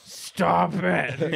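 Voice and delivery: mock little cousin cry; imitating little cousin. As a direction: imitate a mortified child yelling. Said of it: "and he's like".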